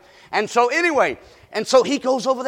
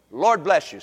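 gentle blessing; 5 semitones lower, 4 dB quieter than usual. Shown as a demonstration. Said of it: "Say it with me".

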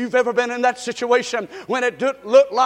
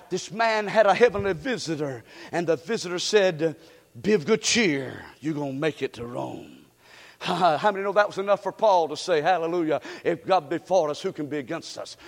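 hushed sermon telling; 7 semitones lower, 7 dB quieter than usual. Acted. Hushed retelling of angel.

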